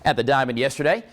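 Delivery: lively play-by-play recap; upbeat sports segment read; sports highlights read. Acted.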